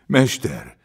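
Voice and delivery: loud narrated outcry; choked, tearful cry. A narrator's reading. Sufferer clutches the master's robe, crying out tearfully. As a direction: call out as if through tears. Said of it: "kiáltotta elfulladva és könnyek között".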